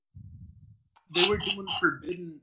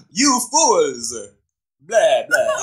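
vampire voice; 5 dB louder, slower than usual. Pretend. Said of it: "make him sound like".

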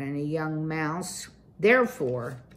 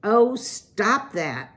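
slow, louder, cutting him off; sharp rebuke; 3 semitones higher, 4 dB louder, slower than usual. Acted. Wife snapping at her husband, slow and louder. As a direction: shut your husband down firmly. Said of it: "she cried".

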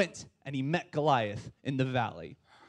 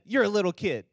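sister's line; 4 semitones higher, 4 dB louder, faster than usual. Shown as a demonstration. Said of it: "And the other said".

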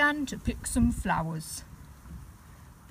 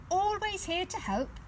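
smiling; 11 semitones higher than usual. Acted. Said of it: "smiled the librarian".

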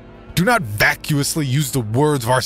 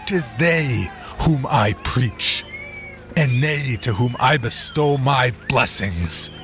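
preaching shout; 5 semitones higher than usual. Acted. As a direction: rouse the crowd to ride out. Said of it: "he shouted".

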